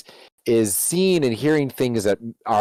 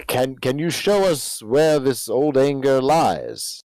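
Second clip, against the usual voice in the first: slow, measured asking; slow solemn question; 3 semitones higher, slower than usual. Acted. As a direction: ask it with grave patience. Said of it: "Octavian will say".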